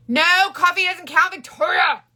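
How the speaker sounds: high, loud playful protest; mock scolding. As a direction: call her out in pretend outrage.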